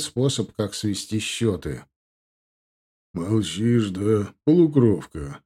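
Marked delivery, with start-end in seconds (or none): 3.1-5.4 smirking taunt. Acted. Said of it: "хмыкнул Индгар".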